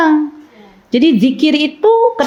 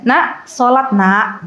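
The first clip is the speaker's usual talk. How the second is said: firm call; much slower than usual. Shown as a demonstration. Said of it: "Tapi kita berbicara tegas".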